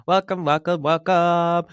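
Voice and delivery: bright, rising welcome to new listeners; excited welcome. Real, not acted. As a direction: greet them warmly, building up. Greeting new podcast listeners.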